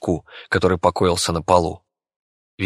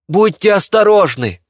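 loud, higher call after them; 11 semitones higher, 6 dB louder than usual. Acted. Bey calling after the fleeing friends, loud. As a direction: shout a warning after them.

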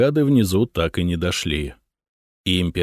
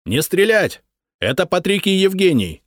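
shouting; 11 semitones higher than usual. A narrator's reading. Patrikios calls to the hidden family, shouting. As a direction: call down to the cellar. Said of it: "крикнул вдруг кто-то на славянском".

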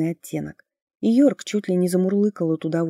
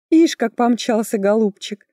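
slow, higher, louder admiration; admiring exclamation; 4 semitones higher, 5 dB louder than usual. A narrator's reading. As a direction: marvel aloud at him. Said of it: "восхитилась Оливия". (восхищённый возглас)

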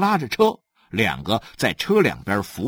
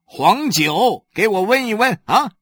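table-slapping order; 10 semitones higher, 7 dB louder than usual. Acted. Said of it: "许三观拍着桌子说".

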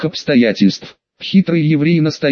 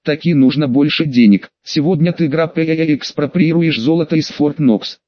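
put-on Odessa accent. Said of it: "с одесским акцентом говорит".

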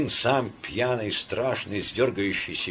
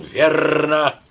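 retold shout; 6 semitones higher, 6 dB louder than usual. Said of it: "я не выдержал и крикнул".

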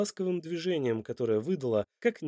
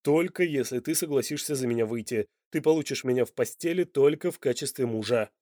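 militant. Acted. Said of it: "воинственно сообщил Данте".

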